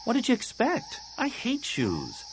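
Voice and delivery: high-pitched, offhand retort; defiant girl. Acted. Tahiri answers friend about her bare feet, defiant.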